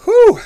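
relieved exhale. Real, not acted. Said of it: "Pardon me".

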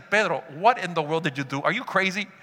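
low, scolding inner voice; inner voice of doubt. Acted. Doubting voice scolding Peter after he steps out, low reproach. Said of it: "esa voz que a veces te habla a ti y a mí".

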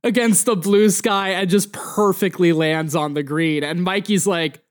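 usual speaking voice

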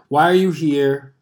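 imitating Doctor Now. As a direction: lean on each word like a stern doctor. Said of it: "I'm not gonna do the accent".

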